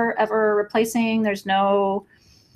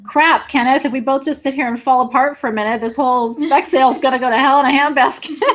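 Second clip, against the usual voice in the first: laughing through it; 4 semitones higher, 3 dB louder than usual. Real, not acted. Laughing off her emotion.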